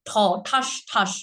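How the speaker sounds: ঠাস ঠাস with a strong breathy aspirated ঠ, not টাস; aspirated consonant demo. Shown as a demonstration. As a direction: say "ঠাস ঠাস" with a full puff of breath on ঠ. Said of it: "কি বলতে হবে".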